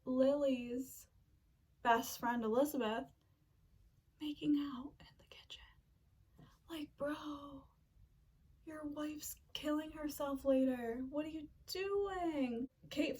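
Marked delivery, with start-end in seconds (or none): 4.2-12.7 hushed, scandalized whisper; shocked whisper. Real, not acted. Telling viewers the dad's affair, whispered in shock. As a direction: drop to a secret whisper, appalled. Scandalized aside about cheating dad.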